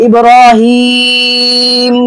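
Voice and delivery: ইব্রাহিম drawn out very long, lips rounded at the final ম; very slow melodic ইব্রাহিম with a rounded-lip stop; ishmam stop. Shown as a demonstration. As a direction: stretch ইব্রাহিম slowly, end on ম with pursed lips. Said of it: "আমি যখন ওয়াকফ করবো".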